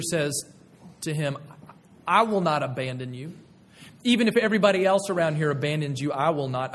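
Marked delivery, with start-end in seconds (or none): 2.1-6.7 brash assurance. Retold or imitated. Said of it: "you can hear Peter, uh, upholding his own faithfulness".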